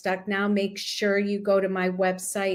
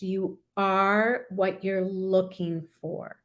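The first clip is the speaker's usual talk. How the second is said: slow, gentle repeat; slower than usual. Shown as a demonstration. Repeats affirmation slowly, softly.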